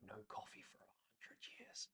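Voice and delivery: whispered secret. Retold or imitated. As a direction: breathe it like a child's secret. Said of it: "they whisper in my ear".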